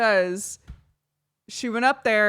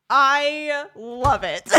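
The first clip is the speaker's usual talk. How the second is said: slow, higher, drawn out through laughter; delighted laughing; 6 semitones higher, 9 dB louder, much slower than usual. Real, not acted. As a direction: savor it while cracking up. Delighted by the absurd story.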